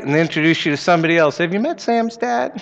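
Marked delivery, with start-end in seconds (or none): 1.4-2.6 high laughing quote; laughing mock cheer. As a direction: toss it off with a laugh. Mocking a cheerful introducer.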